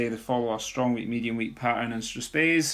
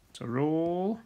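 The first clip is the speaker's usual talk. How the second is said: whispered aside; 5 semitones higher, slower than usual. Real, not acted. Whispered aside while writing.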